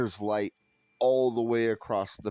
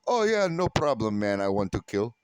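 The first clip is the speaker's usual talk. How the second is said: cheery neighbor; 6 dB louder than usual. Retold or imitated. Enemy neighbor agreeing to the hoax, mock cheerful. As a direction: chirp it out brightly. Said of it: "your neighbor goes".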